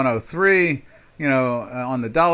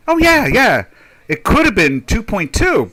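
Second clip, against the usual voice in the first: mock justification; 8 semitones higher, 5 dB louder than usual. Voices seller justifying the price.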